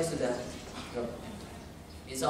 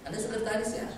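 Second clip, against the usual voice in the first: rising tone; 6 semitones higher, 5 dB quieter than usual. Shown as a demonstration. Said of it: "nadanya mulai agak meningkat".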